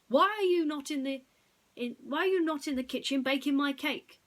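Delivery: loud, high demanding boss; impatient boss. Acted. Boss demands loudly why Boris isn't baking, loud and high. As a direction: demand it like an angry customer.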